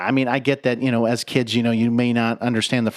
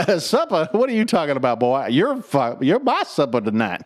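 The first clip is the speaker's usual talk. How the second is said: rooster impression. Foghorn impression banter.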